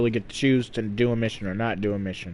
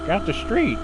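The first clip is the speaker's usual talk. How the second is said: shouting; 6 semitones higher than usual. Acted. Yelling at pedestrians in game.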